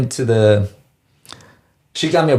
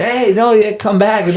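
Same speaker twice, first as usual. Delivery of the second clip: pitched-up, half-hearted holler; retold screaming; 9 semitones higher than usual. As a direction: imitate someone calling after a person walking off. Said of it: "like, screaming".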